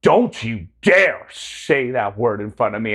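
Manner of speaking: slow, drawn-out retold telling-off; mock scolding. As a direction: imitate her scolding, stretching DARE. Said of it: "thirty seconds of scolding".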